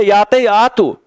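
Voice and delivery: a hint of Brasília slang speech; Brasília accent. Teacher joking how people in Brasília talk, light Brasília accent. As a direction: lightly put on Brasília accent, dropping down on "véi". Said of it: "Mas se é de Brasília".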